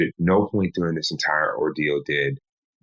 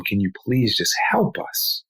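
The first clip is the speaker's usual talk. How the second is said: urgent plea, pitch raised; pleading; 4 semitones higher than usual. Retold or imitated. Husband begging a nurse to help his wife, pleading. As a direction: plead for help, stretching the words slowly. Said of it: "begged and pleaded".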